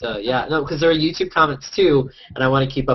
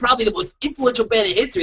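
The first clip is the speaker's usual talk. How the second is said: put-on arguing voice, higher pitched; 9 semitones higher than usual. Reading out a remark from someone arguing with Ryan: imitating Tim Clary. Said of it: "That was my Tim Clary impression".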